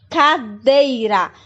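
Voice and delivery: cadeira said slowly with a light tapped R; soft R demo. Shown as a demonstration. Teacher modelling the soft R for the class. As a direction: tap the R of cadeira gently. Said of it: "tem um som cadeira".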